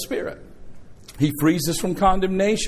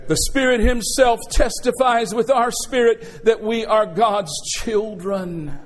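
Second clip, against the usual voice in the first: preached with force; 3 semitones higher, slower than usual. Shown as a demonstration. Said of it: "Testify with me".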